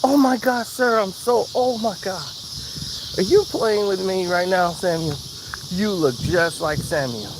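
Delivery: high, gushing oh my God; mortified cashier squealing an apology; flustered cashier. Retold or imitated.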